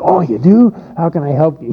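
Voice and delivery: mock sympathy. Preacher imitating himself fussing over a friend's back problems, hammed-up sympathy. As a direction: ham up the eager concern. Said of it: "I was real sympathetic".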